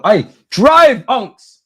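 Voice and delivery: high, loud shout at the screen; excited urging call; urging yell. Real, not acted. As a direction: push him forward with your voice. Urging player to run.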